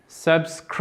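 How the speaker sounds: Subscribers with SCRI stretched and emphasised; stressed syllable held. Shown as a demonstration. Teacher starts from the tonic accent, SCRI stressed in Subscribers. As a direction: lean hard on SCRI in Subscribers. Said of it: "On part de notre accent tonique".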